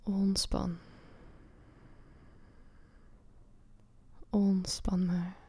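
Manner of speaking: breathy hushed relaxation whisper; soft spa whisper. Acted. Soothing whispered relaxation cue.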